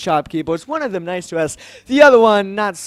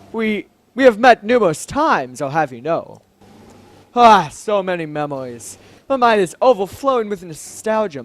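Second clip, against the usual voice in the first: lightly voiced grand, astonished royal; stately royal. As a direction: speak with a touch of formal theatrical weight. Voices the game's royal character.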